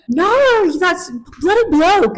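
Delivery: loud, high, slow Australian parody; mock Australian accent. American mocking her friend's speech, exaggerated Australian accent. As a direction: drag it out in broad hammed-up Australian. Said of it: "Or you're like".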